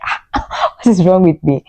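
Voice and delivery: breathy ah, then a laugh; laughing at herself. Retold or imitated. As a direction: laugh at your own tears. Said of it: "I'm like".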